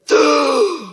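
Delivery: loud sharp gasp; dramatic gasp. Acted. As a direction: gasp in mock shock.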